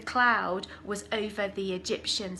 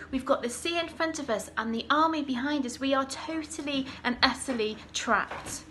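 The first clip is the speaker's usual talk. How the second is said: mock panic; 2 semitones higher than usual. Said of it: "they were shouting at Moses".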